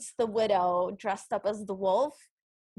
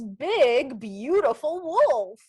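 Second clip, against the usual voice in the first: deep wolf voice; 3 dB louder, much slower than usual. Retold or imitated. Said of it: "and the wolf goes".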